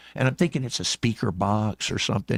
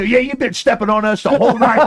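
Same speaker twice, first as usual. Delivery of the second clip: higher, louder accusing crowd; mild mock grumble from the small crowd; chorus of little guys; 9 semitones higher, 6 dB louder than usual. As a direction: voice the little dancers ganging up. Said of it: "a bunch of little faces come out and go".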